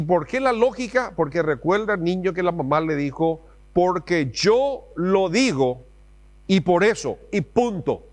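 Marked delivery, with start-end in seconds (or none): 3.7-8.1 very slow, firm mock-mother verdict; a hint of a stern mother; bossy mom. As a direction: lay down the law like a mother. Mom's final word, acted.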